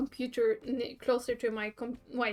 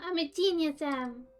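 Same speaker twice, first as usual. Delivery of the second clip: gloating. Acted. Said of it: "She cackled maniacally".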